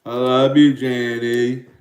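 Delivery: a loud, lightly voiced Forrest Gump; Forrest Gump line. Fan paid him a dollar ninety-nine, loud light Gump impression. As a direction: belt out the movie line for a tipper, only a hint of Gump. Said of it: "Somebody told me to say Jenny".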